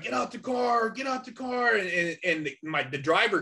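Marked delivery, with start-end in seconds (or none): 0.0-1.8 higher, barked cop order, repeated; cop commanding. Retold or imitated. Cop drawing down on the robbers, higher barked command. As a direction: play the cop ordering them out. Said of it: "And he's like".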